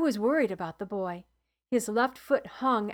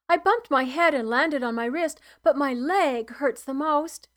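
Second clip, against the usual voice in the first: put-on 1 hurt child; 4 semitones higher, 6 dB louder than usual. A narrator's reading. Injured boy answering healer.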